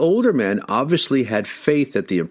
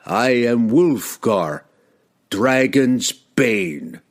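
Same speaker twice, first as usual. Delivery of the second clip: slow, ringing, triumphant reveal; triumphant proclamation; 3 semitones higher, much slower than usual. Acted. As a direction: unveil the title with relish. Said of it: "heightening the anticipation of his next proclamation".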